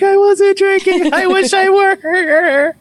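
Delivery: high, slow, wry comeback; wry retort. Retold or imitated. Answering doubters with a slow, high wry joke. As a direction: drag it out like a rueful joke. His own retorted reply.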